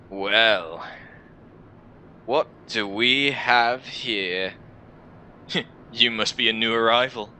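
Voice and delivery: lightly voiced jaded stranger, drawn-out greeting; sardonic warrior. Warrior greets a new arrival by the fire, lightly sardonic. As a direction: size up a newcomer with a hint of amusement.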